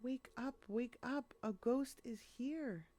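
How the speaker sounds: high frightened call to wake the others; shouting in fear. A narrator's reading. Cement mixer wakes the trucks about a ghost, high frightened shout. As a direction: cry out the warning, scared stiff. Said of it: "then shouts in fear".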